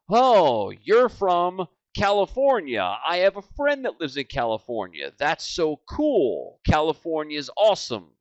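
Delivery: mock over-eager chumminess; fake rapport-building. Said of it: "That's you sounding like an idiot".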